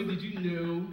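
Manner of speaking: low drawn-out did you know. Shown as a demonstration. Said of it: "repeated with varied delivery".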